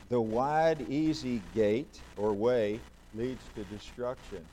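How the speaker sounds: loud and slow, weighing each word; emphatic scripture reading. Real, not acted. Preacher reading Jesus' warning, loud and slow. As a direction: warn them, slow and loud.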